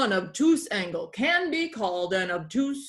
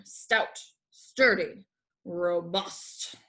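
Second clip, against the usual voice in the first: a lightly voiced pirate teacher, relishing each word; light pirate lilt, hamming up the list. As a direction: savour the adjectives like an old sea dog. Pirate teacher describing shapes.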